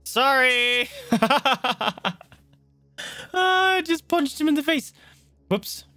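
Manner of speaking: high laughing sorry; laughing apology. Real, not acted. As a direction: blurt it out laughing. Accidentally punched friend in game.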